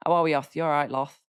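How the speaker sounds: put-on a light touch of strong Derby accent. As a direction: greet a mate in broad Derby. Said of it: "If you've got a strong Derby accent".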